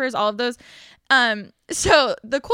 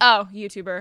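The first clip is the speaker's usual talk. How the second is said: irritated put-on voice; 3 semitones lower than usual. Retelling a photographer reading the sign: imitating an annoyed photographer. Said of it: "so annoyed".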